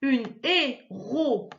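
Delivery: "héroïne" slowly as hé, ro, i, ne; slow "héroïne", o and i kept apart; syllable by syllable. Shown as a demonstration. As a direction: chop "héroïne" into four spaced sounds. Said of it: "c'est carrément coupé".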